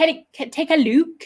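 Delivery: put-on local accent sounding Scottish. Copying a local pronunciation of double O words, sounding Scottish. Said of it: "this sounds more like Scottish".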